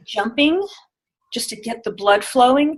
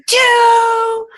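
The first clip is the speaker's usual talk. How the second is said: high, louder excited two; different emotion; 13 semitones higher, 6 dB louder than usual. Shown as a demonstration. Coach demoing the next number, excited and high. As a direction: burst out with two. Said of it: "say the number with a different emotion".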